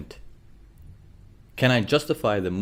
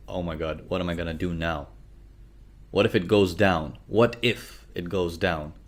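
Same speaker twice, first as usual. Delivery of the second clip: quieter, hushed mock panic; 4 semitones lower, 4 dB quieter than usual. Trader voicing a scared buyer's panic, hushed and worried. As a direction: imitate a panicked trader under his breath. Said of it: "there's panic in the market".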